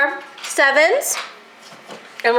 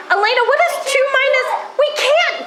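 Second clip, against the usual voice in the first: surprised; 11 semitones higher than usual. Shown as a demonstration. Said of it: "teacher catches the trick".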